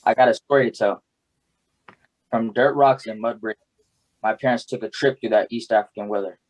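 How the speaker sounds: spoken-word delivery, line by line with pauses; poem recitation. Acted. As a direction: recite it as a personal story in verse.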